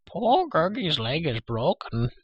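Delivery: high, slow creature wail; moaning Gurgi. A narrator's reading. Injured creature tells of his leg, moaning. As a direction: moan pitifully in a high creature voice. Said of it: "he moaned".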